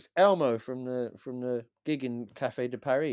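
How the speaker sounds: ordinary delivery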